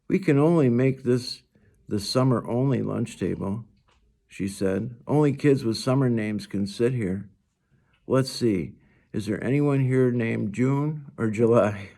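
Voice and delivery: a hint of a bright young girl; lightly voiced cheerful girl. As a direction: play the friendly girl lightly. Narrator voices Summer.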